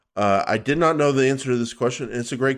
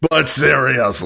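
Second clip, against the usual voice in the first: mock Aussie accent; 2 semitones higher than usual. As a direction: echo it as an over-the-top Aussie. Co-host mimics reader in mock Aussie.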